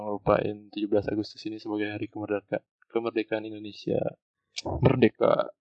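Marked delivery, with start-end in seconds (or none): 4.8-5.5 rallying shout. Acted. Rallying cry for independence day.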